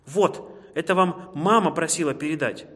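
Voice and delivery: a hint of piping little squirrel; squeaking baby squirrels. A narrator's reading. Baby squirrels delivering mother's gift, lightly squeaked. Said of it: "пропищали бельчата".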